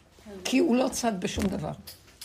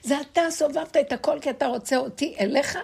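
retold crying out; 7 semitones higher, 5 dB louder than usual. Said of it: "ואז היא צעקה עליו".

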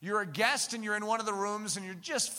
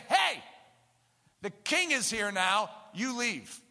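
mock eviction; 4 dB louder, slower than usual. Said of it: "come into the room and say".

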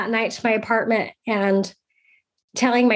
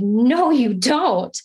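drawn-out, higher-pitched retold refusal; firm refusal; 4 semitones higher, slower than usual. Roommate forbidding her friend to call him, adamant. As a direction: lean slowly on an imitated adamant no.

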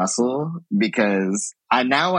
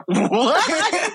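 mock disbelief. Her stunned retold reaction.

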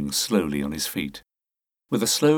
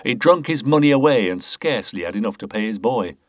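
put-on pious air; 2 semitones higher, 4 dB louder than usual. Boothby pleads to the inspector, mock pious. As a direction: feign piety, a touch hammed-up. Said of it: "tried his best to affect a pious air".

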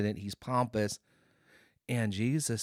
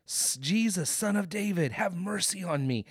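imitated hollering; 5 semitones higher than usual. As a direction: call out high, holding back the volume. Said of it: "he hollers out".

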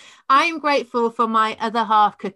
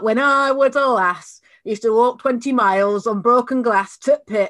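Yorkshire put-on; 3 semitones higher, 6 dB louder than usual. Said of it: "I grew up in Yorkshire".

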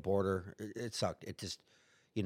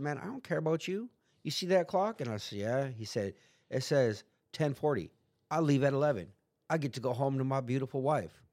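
taunting guard; 4 semitones higher than usual. Retold or imitated.

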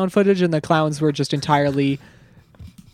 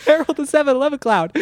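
announcer voice; 9 semitones higher than usual. Pretend. Echoing the clown name.

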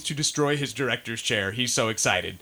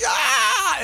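much higher, louder crowd roar; imitated crowd cheer; 4 dB louder than usual. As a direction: cheer like a hyped Comic-Con crowd. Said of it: "everybody was like".

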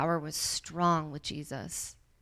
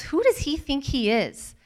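indignant muttering; 4 semitones higher, 3 dB louder than usual. Acted. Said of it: "said to themselves".

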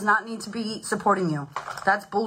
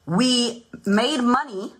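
whispering; 3 semitones higher, much slower than usual. Acted. Secret triumphant reveal.

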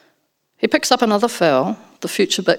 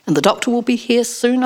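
higher, falsely cheerful reassurance; bright; 5 semitones higher than usual. Acted. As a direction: chirp it to cover worry. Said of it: "I say brightly".

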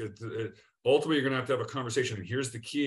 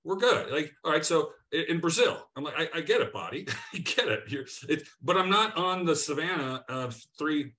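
raised, higher, insistent reassuring; emphatic reassurance; 4 semitones higher, 4 dB louder than usual. Retold or imitated. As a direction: talk him down, louder and keen. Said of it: "I've told Payne, yeah, I said".

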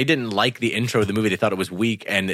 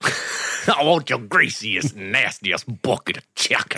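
Texan drawl; slower than usual. Retold or imitated. Mock Texan chicken demand.

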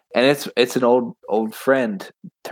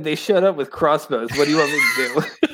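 Matrick's excuse; 4 semitones higher than usual. Retold or imitated. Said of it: "he said".

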